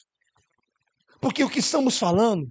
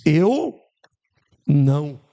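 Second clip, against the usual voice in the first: loud denial; 5 semitones lower, 5 dB louder, much slower than usual. Acted. Peter's denial acted.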